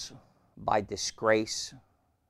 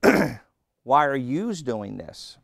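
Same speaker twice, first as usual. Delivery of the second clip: slow and loud, higher, like Paul scolding the church; a slow, loud, pitched-up apostle's rebuke; reproving rebuke; 3 semitones higher, 7 dB louder, much slower than usual. Retold or imitated. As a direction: demand it slowly of the whole congregation.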